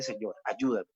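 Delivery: mild retold weeping plea; retold tearful prayer. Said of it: "en ese baño llorando le dije".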